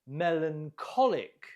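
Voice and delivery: "Melancholic" with the -CHOL- syllable clearly stressed. Shown as a demonstration. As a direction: hit the ko in "Melancholic". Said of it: "Note the stress on the ko".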